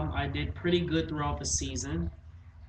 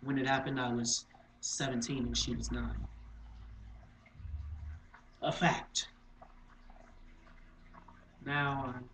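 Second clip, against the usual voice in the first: subdued, grave confession; dramatic monologue; 4 dB quieter than usual. Acted. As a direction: recall it softly, pausing between facts.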